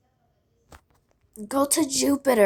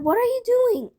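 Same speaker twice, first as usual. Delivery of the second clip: mildly shocked question; 11 semitones higher than usual. Retold or imitated. Retold shock again.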